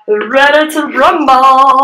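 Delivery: drawn-out announcer's catchphrase; mock fight-night hype; playful ring announcer. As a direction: rev up the crowd, stretching the words.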